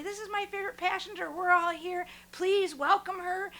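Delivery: mock announcement. Shuttle driver introduces favorite passenger to everybody, announcing.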